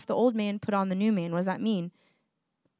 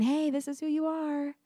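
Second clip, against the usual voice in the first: gentle Jesus; 5 semitones higher, 4 dB quieter than usual. Retold or imitated. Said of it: "Jesus is just saying".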